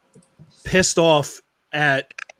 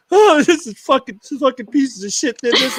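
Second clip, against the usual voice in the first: mock outraged rant; 6 semitones higher than usual. Angry outburst at the news while driving.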